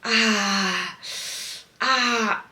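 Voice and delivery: cartoon groan of pain; Peter Griffin groan. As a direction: groan like a fallen cartoon dad. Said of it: "you can just hear me Peter Griffining it".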